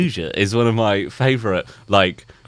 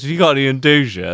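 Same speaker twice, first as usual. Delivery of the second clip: know-it-all customer; 4 semitones higher, 4 dB louder, faster than usual. Retold or imitated. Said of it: "the prick who comes in and goes".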